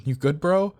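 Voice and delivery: loud, high rising question; concerned call. Acted. Roommate to friend who ignores him, concerned call. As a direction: check on a friend rushing by.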